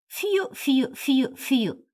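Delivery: high mocking whistle, fью fью. Drunk Lyakhov whistling to mock the two women, high mocking whistle. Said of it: "Ляхов засвистал".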